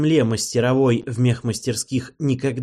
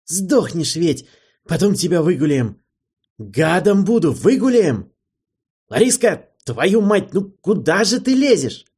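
higher and louder, pleading yell; shouting gnome; 7 semitones higher, 6 dB louder than usual. A narrator's reading. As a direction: wheedle and yell at once. Gnome wrangling salamander, shouting. (гном кричит, выше и громче)

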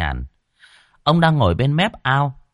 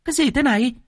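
shocked gasp; faster than usual. A narrator's reading. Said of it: "thì kinh hãi".

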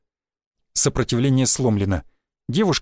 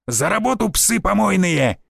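drawn-out, higher-pitched call; shouting; 4 semitones higher, slower than usual. A narrator's reading. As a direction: call them to work, stretching the insult. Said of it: "и крикнул". (протяжный окрик)

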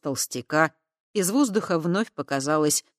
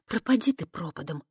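grumbled curse; 2 semitones higher than usual. Acted. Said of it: "буркнула Кава".

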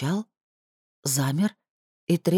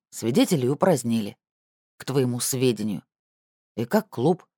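gloomy; 2 semitones lower than usual. Acted. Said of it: "сумрачно поинтересовался я".

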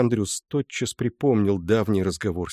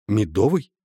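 breathless louder astonished question; shocked gasp; 4 semitones higher, 6 dB louder than usual. A narrator's reading. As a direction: gasp out the word in disbelief. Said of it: "Андрюс едва не задохнулся".

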